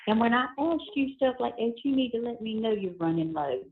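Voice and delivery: tinny phone call audio; payphone call. Real, not acted. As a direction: voices over a prison phone line. Recorded prison phone call played.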